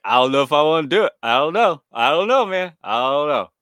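lightly voiced dithering detective; hesitant detective impression. Detective unsure about removing the shark, lightly imitated hesitation. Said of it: "don't talk like this".

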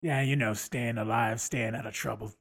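Wolverine voice. Acted. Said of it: "let's hear it".

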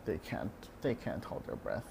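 mild despairing aside to herself; muttered exasperation. Retold or imitated. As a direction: mutter it under your breath. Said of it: "And I'm like".

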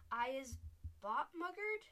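the smallest giant screeching in fury; giant's screech. A narrator's reading. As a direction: screech it at the top of the voice. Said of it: "screeched the Butcher Boy".

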